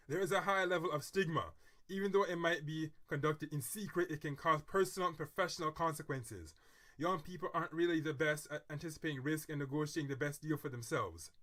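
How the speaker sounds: steady news-style reading; article read-aloud. Acted.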